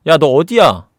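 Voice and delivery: loud acted demand; retold phone demand. Sister phones brother asking where he is, loud demand.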